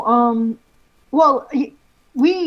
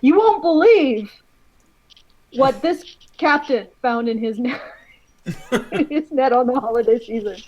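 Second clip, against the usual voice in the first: clickbait video narrator. Acted. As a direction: draw out the teaser for clicks. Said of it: "clickbait bases".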